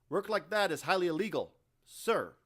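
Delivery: loud, high, mockingly scandalized; mock-shocked marine. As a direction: feign outrage, teasing. Carr mocks the illegal request.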